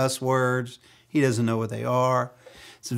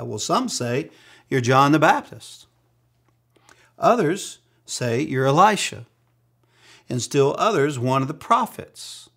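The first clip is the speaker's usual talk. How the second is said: disciples answering; 3 semitones higher, 5 dB louder than usual. Acted.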